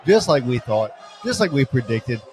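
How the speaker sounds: loud, triumphant celebration yell; excited shouting. Real, not acted. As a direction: roar it out like you just won the title. Celebrating a national championship.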